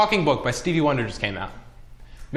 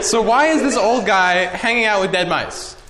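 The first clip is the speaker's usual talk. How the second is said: giggling through the words; cracking up mid-sentence; laughing; 8 semitones higher than usual. Real, not acted.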